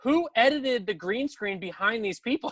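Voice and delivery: very high, laughing through it; laughing disbelief. Real, not acted. Reacting to a doctored photo, laughing. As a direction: crack up in disbelief.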